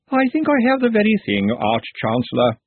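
cheerful, high and reedy; a bright, piping little man; thin reedy voice. Acted. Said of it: "said a cheerful but reedy voice".

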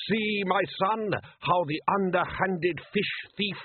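put-on high, slow sing-song Klatchian accent; Klatchian fisherman. Arif telling his son about the thief, sing-song Klatchian accent. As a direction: lecture his son grandly.

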